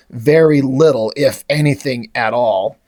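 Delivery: casual, low-pitched indifference; Battle Beast. Retold or imitated. Battle Beast answering Salaka's plea, casually indifferent. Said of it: "Battle Beast just casually looks".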